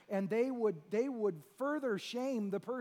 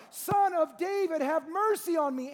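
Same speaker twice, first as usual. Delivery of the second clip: crying out; 3 semitones higher, 3 dB louder than usual. Retold or imitated. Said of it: "he cried out all the more".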